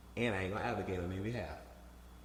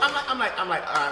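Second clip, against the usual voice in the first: laughing; 9 semitones higher, 10 dB louder than usual. Real, not acted. Laughing, loud and high.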